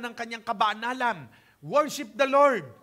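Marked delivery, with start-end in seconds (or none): 1.6-2.7 emphatic exhortation. Real, not acted. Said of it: "preacher exhorts congregation".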